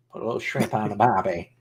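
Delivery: hammed-up Aussie cliché accent; stereotypical Australian accent. Streamer mocking his own attempt, stereotypical Australian accent. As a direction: do a stock Australian accent, dropping the R.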